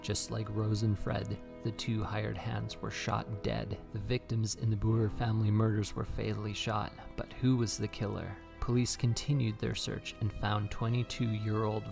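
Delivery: measured storytelling read; true crime narration. Acted. Reads true crime over music.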